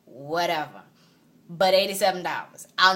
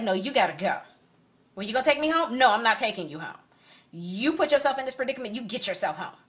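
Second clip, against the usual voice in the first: louder, cold dismissal; retold angry dismissal; firm angry refusal; 4 semitones higher, 3 dB louder than usual. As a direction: shut him down hard. Kicking him out.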